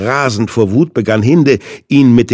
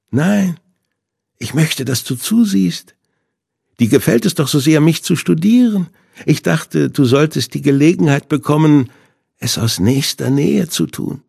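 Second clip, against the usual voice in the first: higher, gloating villain voice; Hinde, higher and mocking; villain's voice; 5 semitones higher than usual. A narrator's reading. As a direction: savour every word like a sadist. Villain Hinde taunts Sebastian.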